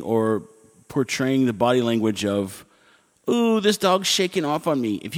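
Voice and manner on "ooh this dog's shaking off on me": cringing beachgoer. Retold or imitated. Mimics people cringing at wet dog.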